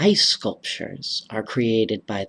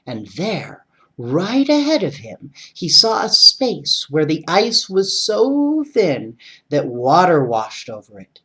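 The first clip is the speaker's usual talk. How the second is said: bright, lively read-aloud voice; story narration; 2 semitones higher than usual. A narrator's reading. Reading a winter story to young listeners, lively narration. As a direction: tell it like bedtime reading for kids.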